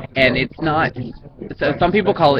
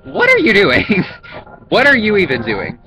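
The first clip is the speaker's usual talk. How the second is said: incredulous; 8 semitones higher, 4 dB louder than usual. Retold or imitated. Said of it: "and I'm like".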